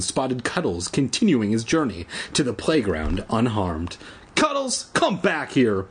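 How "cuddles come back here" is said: high, angry yell after a pet; furious shout. A narrator's reading. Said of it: "he shouted furiously".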